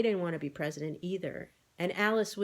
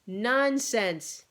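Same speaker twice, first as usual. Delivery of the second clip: firm loud dismissal; loud brisk nonsense; loudly; 4 semitones higher, 5 dB louder than usual. A narrator's reading. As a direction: overrule her at once. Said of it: "he said loudly".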